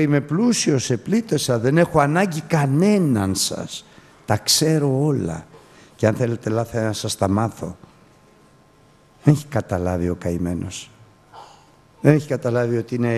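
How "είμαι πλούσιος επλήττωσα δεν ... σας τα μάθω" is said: mock proud boaster. Preacher mocks the proud man who needs no one, haughty. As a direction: lightly voice the arrogant man boasting of his riches. Mocking the proud rich believer.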